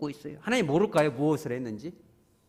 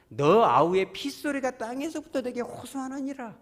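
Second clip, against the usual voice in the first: solemn proclamation; 9 semitones higher, 5 dB louder than usual. Acted. Reading God's words to Cain.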